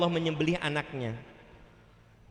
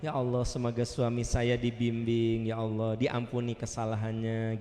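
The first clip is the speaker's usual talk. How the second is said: wife's forgiving prayer; 6 semitones lower than usual. Acted. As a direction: pray gently for your husband. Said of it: "kalau disakiti oleh suami".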